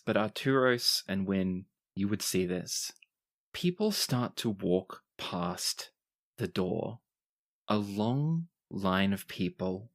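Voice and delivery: measured storytelling with deliberate pauses; game master narration. Acted. Game master sets the scene.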